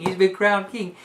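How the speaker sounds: usual speaking voice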